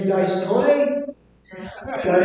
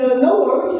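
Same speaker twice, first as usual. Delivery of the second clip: sweet local lady; 4 semitones higher, faster than usual. Retold or imitated. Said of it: "people here are so nice".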